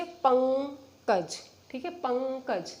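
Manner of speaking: पंकज drawn out with a nasal ng; slow nasal demo. Shown as a demonstration. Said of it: "आप जब स्वयं उच्चारण करेंगे". (पंकज धीरे नासिक्य उच्चारण)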